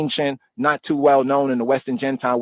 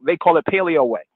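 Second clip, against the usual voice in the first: raised, insistent mock voice of a critic; mocking objector; 4 semitones higher than usual. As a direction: mimic a know-it-all who insists the script looks different. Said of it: "Some say".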